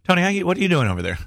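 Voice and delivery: quick shout to Tony; calling out. Real, not acted. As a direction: call across the room. Calling out across the room.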